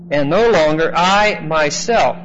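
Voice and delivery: weight on "I myself", slow and firm; emphatic subject. Shown as a demonstration. Teacher stressing "I myself" while translating literally. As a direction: press the words "I myself" hard. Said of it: "very emphatic subject".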